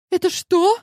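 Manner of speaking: put-on a teen caught off guard; high, loud puzzled girl; startled girl. A narrator's reading. Daughter startled by the photo.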